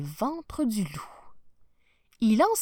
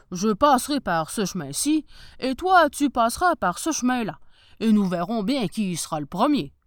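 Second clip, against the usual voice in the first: wolf voice; 6 dB louder than usual. Acted. Wolf challenges the girl.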